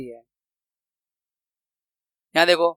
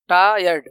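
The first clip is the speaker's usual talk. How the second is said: टायर्ड as टा, then यर्ड; broken into syllables; 3 semitones lower, slower than usual. Shown as a demonstration. Teacher showing what two syllables are, टायर्ड split. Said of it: "two syllable क्या है".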